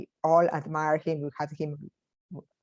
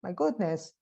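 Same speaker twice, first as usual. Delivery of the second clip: retold club colleagues; 4 semitones higher than usual. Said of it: "the club was saying".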